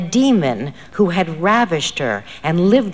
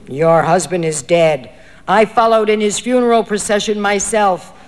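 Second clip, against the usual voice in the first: booming voice; 2 semitones higher, 5 dB louder than usual. Acted. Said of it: "The voice of the teacher's helper boomed out".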